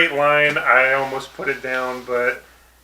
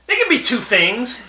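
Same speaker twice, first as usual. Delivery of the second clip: high-pitched politician impression; pitched-up cartoon mayor; Mayor Quimby; 9 semitones higher than usual. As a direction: insist on it in a put-on mayor voice. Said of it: "And Quimby says".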